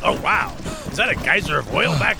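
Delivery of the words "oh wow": surprised gasp. Acted. Sees an oil geyser.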